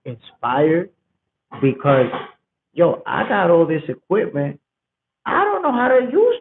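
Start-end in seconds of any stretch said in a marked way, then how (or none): 5.3-6.4 high squeaky aside. Real, not acted. Admitting cluelessness.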